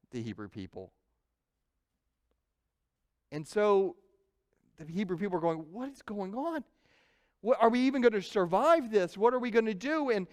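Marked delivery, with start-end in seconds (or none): 5.7-10.1 a touch of raised, anxious worry; mildly fretful crowd voice, a little higher; worried Hebrews. Retold or imitated. Hebrews fearing defeat, retold.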